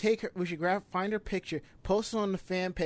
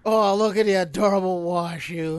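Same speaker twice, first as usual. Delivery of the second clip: put-on squealing baby talk aunt; 8 dB louder than usual. Teasing cooing over cosplay photo.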